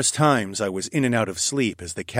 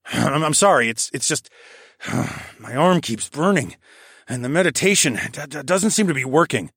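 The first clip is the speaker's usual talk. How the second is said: shaky stammer; 5 semitones higher than usual. A narrator's reading. Stammering apology in pain.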